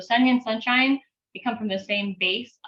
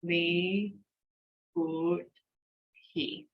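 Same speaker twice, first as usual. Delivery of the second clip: "Li", "Good", "He" one at a time with pauses; slow sounding-out, a gap after each syllable; 6 dB quieter, much slower than usual. Shown as a demonstration. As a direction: break it up: Li ... Good ... He. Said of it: "Three times fast".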